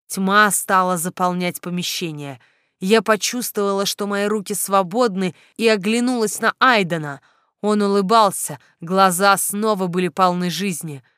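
plain reading voice

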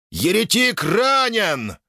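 high, slow yell; shouted alarm. Acted. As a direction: cry it out to the troops. Knight yells. (тревожный крик)

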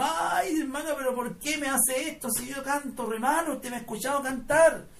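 high wailed opening, then pleading objection; mock dismayed protest. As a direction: act out a reluctant singer begging off. Acting out his protest at being picked.

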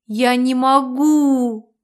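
slow, drawn-out mild wail; a slow, lightly tearful cry of despair. A narrator's reading. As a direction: stretch it out in a half-hearted wail. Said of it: "завыла я".

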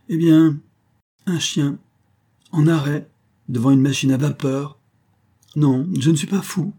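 a man who found lost treasure, high and loud with exaltation; exalted. Acted. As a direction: blurt it out, beside yourself with the find. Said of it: "reprit-il avec une exaltation".

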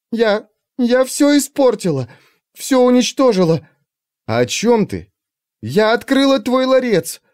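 high, tearful confession; shaken tearful witness. A narrator's reading. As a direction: choke out the words in tears. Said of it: "Захлёбываясь слезами".

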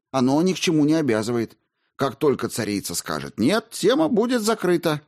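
a clerk making excuses; defensive official. Acted. Kolomna justifies himself.

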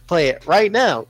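"Play it right now" slowly and deliberately; test command. Shown as a demonstration. Host testing whether audio triggers on "Play it right now", deliberate. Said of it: "what if I say".

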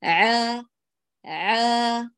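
a relaxed عا without pressing; gentle ayn demo. Shown as a demonstration. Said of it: "لا تعصري الزيادة ولا تميلي".

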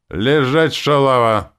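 high, loud order to stay down; angry shouted command. Acted. Fighter ordering the beaten demon down, furious shout.

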